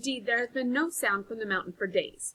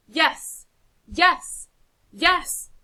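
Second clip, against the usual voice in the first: high, loud excited yes; rising cheer; 9 semitones higher, 12 dB louder, much slower than usual. Acted. Villagers rally to vote, loud high cheers. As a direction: cheer it with the crowd.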